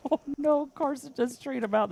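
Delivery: high, startled "oh no"; surprised. Real, not acted. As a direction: gasp as the player drops. Reacting to a play.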